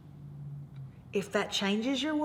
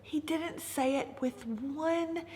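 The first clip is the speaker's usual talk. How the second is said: soft, slow hushed telling; 4 semitones higher, 6 dB quieter, slower than usual. Retold or imitated. Preacher hushes to the congregation, soft and slow. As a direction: lean in and hush it like a secret.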